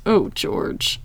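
a hushed, mildly tearful sigh of a name; starting to cry. Retold or imitated. Meredith realizing her mistake to George, retold as starting to cry. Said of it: "Like, starting to cry".

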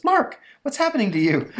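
high, loud falsetto woman; hammed-up panicked fiancée, laughing through it; squeaky mock-frightened lady voice; Elsa voice. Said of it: "You missed my Elsa voice".

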